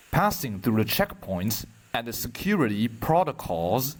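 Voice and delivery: measured poem reading with long pauses between lines; poetry recitation. Acted. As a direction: recite it line by line, unhurried.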